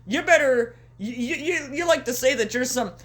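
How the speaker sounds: exaggerated folksy MJF impression; hokey MJF voice. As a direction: play him as a gee-whiz hick. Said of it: "that's how he sounds in my head".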